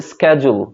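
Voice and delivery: 'schedule' opening with sk; American hard k in 'schedule'; American pronunciation. Shown as a demonstration. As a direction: say 'schedule' as SKED-jul. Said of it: "আমেরিকানরা এটাকে বলে".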